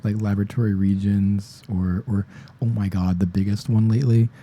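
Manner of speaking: worked up and raising the voice; getting too loud. Real, not acted. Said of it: "I'm getting way too loud".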